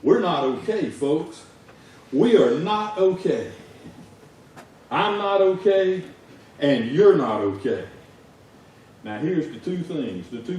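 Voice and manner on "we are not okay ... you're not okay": slow, loud, each word weighed; emphatic preaching. Real, not acted. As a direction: hammer the message home. Preacher driving home the point.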